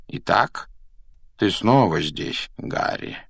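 slow, measured professor; lightly voiced wise headmaster; calm old professor.

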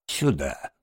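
low, gentle Badger; soft-spoken. A narrator's reading. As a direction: coax kindly in a low voice. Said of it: "мягко сказал Барсук". (мягко, низким голосом)

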